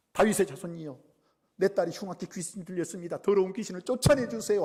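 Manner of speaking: acted cry for mercy; crying out pleadingly. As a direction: plead urgently for your daughter. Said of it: "소리를 질렀어요".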